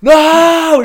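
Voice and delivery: very high, loud screamed refusal; drawn-out, hammed-up yell; acted scream. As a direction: scream to drive someone away. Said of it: "screaming at this fucking homeless guy".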